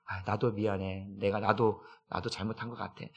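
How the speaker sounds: low, soft husband answering sorry; tender apology back. Retold or imitated. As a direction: hush it out, making peace.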